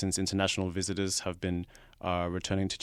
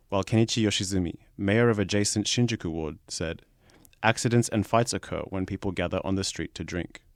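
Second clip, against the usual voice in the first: steady, projected newsreader delivery; news read; 5 dB louder than usual. Acted. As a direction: read the article out sentence by sentence, punching each opening. Reads the article aloud.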